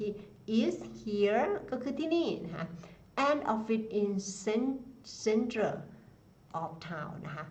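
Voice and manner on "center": center said slowly, stress on cen; center demo. Shown as a demonstration. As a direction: say center clearly with stress on the first syllable. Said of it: "ออกเสียงเหมือน center".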